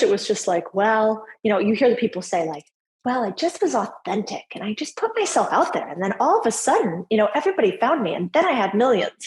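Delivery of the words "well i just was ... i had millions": put-on high, breezy Valley girl voice; lightly mock a Valley girl. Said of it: "Why are you talking like a Valley girl?".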